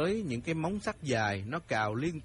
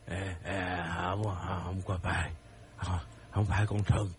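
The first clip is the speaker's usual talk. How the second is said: lower, halting frightened denial; stammering fear; 5 semitones lower than usual. Acted. Old man denies it to his wife, stammering low. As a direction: stumble over each word.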